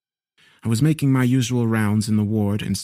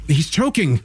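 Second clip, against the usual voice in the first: urgent cry, higher and louder; alarmed shout; 6 semitones higher, 3 dB louder than usual. A narrator's reading. Realizing he is choking.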